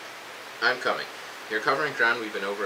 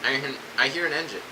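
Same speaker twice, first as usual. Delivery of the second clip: higher-pitched, urgent radio call; urgent alert; 4 semitones higher than usual. Acted. Soldier radioing Coop on hearing an engine, urgent and high. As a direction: alert your partner in sudden urgency.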